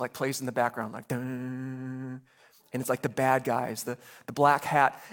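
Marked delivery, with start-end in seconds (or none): 1.1-2.2 ominous music sting. Retold or imitated. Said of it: "ominous music".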